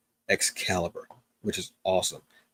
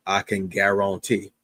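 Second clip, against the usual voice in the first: slow, drawn-out mock Cajun catchphrase; horrible Cajun accent. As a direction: put on a bad Cajun accent. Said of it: "that horrible Cajun accent".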